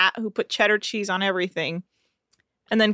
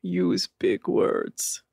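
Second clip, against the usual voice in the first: slow deadpan punchline; Rob; 3 semitones lower, 5 dB quieter, much slower than usual. Retold or imitated. Host as Rob finishing a joke for Nick, deadpan. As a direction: deliver it stiff and measured, no lift. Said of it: "You have a joke for Nick?".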